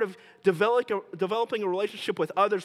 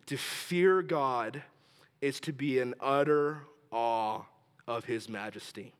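slow dictation, lower, with pauses; said slowly; 5 semitones lower, 3 dB quieter, slower than usual. Shown as a demonstration. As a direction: spell it out slowly for note-takers. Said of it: "I'll say it slow".

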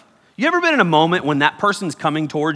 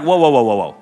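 louder "whoa" string to stop them; mock calming; 4 semitones lower, 5 dB louder, faster than usual. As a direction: halt them, hands up. Brother stopping the plot.

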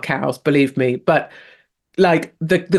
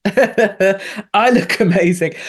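slowly repeating through a laugh; 3 semitones higher, much slower than usual. Retold or imitated. Host delighted, laughing as she repeats a viewer's compliment. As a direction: savour the compliment with a chuckle. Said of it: "That's my kind of person".

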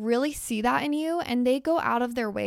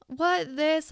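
high, mock-surprised brush-off; playfully incredulous deflection; dismissive modesty; 6 semitones higher than usual. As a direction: act caught off guard by praise. Acting out brushing off a compliment.

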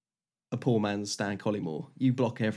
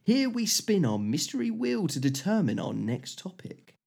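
game show host; 2 semitones higher, slower than usual. Acted. Game show wheel segment.

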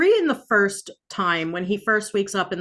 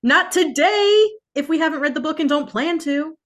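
hammed-up heroic declaration; mock epic speech; 8 semitones higher, 4 dB louder than usual. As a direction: quote it like a sword master, grandly. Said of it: "Game of Thrones parody quote".

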